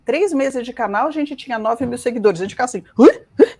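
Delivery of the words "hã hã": short mock gasps of surprise; retold startled gasps. Host shows their reaction to the follower count, mock startled gasps. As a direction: gasp as if startled, twice. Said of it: "um susto, cada vez que a gente olha lá".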